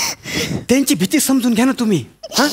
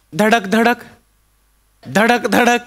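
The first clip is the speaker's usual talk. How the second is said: train rhythm; much slower than usual. Shown as a demonstration. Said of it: "मी काय करतो".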